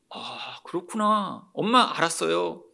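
soft, low, understanding little reply; quietly compliant, mock-obedient child; meek child. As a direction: play a child giving in to mom. Acts out child meekly accepting parent.

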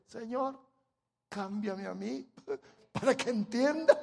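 plain prayer breaking into a laugh. Shown as a demonstration. Preacher suggesting a humbler prayer, light and chuckling. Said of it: "eso no se nos ocurre decir".

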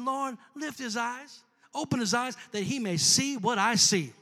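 calm prayer. Retold or imitated. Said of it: "Elisha's chill".

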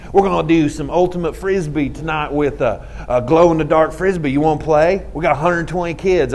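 lightly imitated Arkansas twang; attempted Arkansas accent. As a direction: try a weird Arkansas accent. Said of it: "try and do the weird accent".

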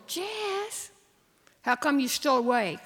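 put-on high, shrill child's voice; shrill little girl. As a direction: pipe up like a small girl. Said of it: "Maybelle's shrill little".

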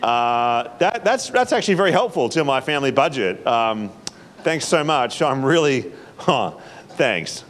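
giggling, half-stunned thanks; amused, incredulous gratitude; laughing disbelief. Retold or imitated. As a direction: laugh through the words in disbelief. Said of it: "I'm gonna be like".

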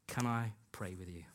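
soft, low, tender question; gentle offer. Retold or imitated. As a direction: retell it as a quiet, caring offer. Retells gently offering prayer to colleague.

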